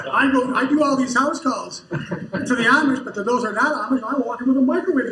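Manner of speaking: a laugh breaking into the story. Real, not acted. Telling listeners about house calls to the Amish, laughing.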